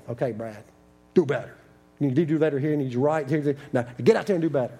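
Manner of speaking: lightly voiced corner coach; a hint of a coach firing up his fighter; boxing coach. Coach in the boxing corner to his fighter, mild pep talk. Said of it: "the guy came in my boxing corner, my coach".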